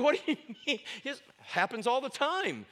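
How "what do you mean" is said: incredulous. Retold or imitated. Retold disbelief.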